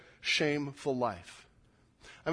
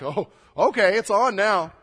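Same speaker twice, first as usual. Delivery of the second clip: defiant; 2 semitones higher, 7 dB louder than usual. Acted. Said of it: "He's like".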